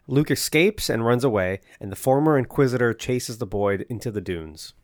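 measured read-aloud episode summary; scripted recap narration. A narrator's reading. Podcast host reads listeners the episode's plot, scripted recap narration. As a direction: narrate the plot recap evenly, sentences falling at the end.

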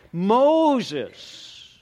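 high ringing call. Acted. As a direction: call his name again. God calling out from bush.

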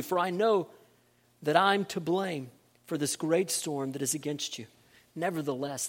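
measured Bible reading, even and solemn; scripture reading. Acted. Preacher reading Jonah aloud to the church, solemn and measured. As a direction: read the passage to the congregation.

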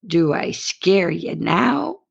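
slow, teasing question with a long rising "now"; mocking. Cowgirl taunts her date as she lights up, mocking. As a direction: draw it out, swooping up at the end. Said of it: "smiled mockingly and said".

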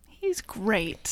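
whispered agreement; hushed and airy. Pretend. Whispered echo.

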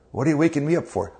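quick, grumpy mock complaint at being woken; annoyed. Jesus roused by frightened disciples, mildly annoyed and quick. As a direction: huff it out like someone roused from a nap. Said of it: "he actually gave him an annoyed look".

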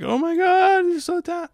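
very high, breathless teary gush; gushing pop-star judge. Retold or imitated. A pop star gushing at a singer, high teary squeal. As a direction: squeal it like an overwhelmed judge. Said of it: "she's like".

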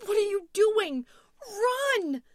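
very high, very loud scream; panicked shout. A narrator's reading. Louise urges Tom to flee the creature, panicked shouting. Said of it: "shouting at Tom".

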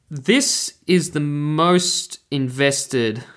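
words stretched very slowly and oddly; drawn out slowly. Real, not acted. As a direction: drag the phrase out, losing the thread. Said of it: "did that make sense?".

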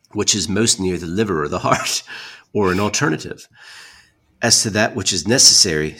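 haughty formal retort; dramatic letter reading. Acted. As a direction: read a combative old reply aloud. Reads reply letter aloud.

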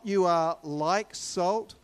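you are like salt, slow and loud; stressed you, slow. Shown as a demonstration. Preacher correcting a reading, slow emphatic stress. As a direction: lean hard on you, drawn out.

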